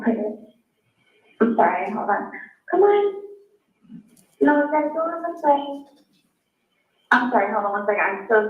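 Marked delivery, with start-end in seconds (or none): 2.7-5.8 sharp higher call to the dog. Real, not acted. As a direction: urge the dog in, raised voice. Calling dog in, flustered.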